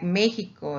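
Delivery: "Mexico" with the x as a Spanish j. Shown as a demonstration. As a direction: say "Mexico" as ME-hee-ko. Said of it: "is like a J".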